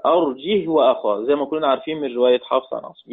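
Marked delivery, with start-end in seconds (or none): 0.1-1.2 "أرجه وأخاه" with a vowelless h closing "arjih"; silent-vowel ha, no hamza. Shown as a demonstration. Teacher showing Asim and Hamza's reading, "أرجه وأخاه" as arjih wa-akhah. سكون وبدون همزة.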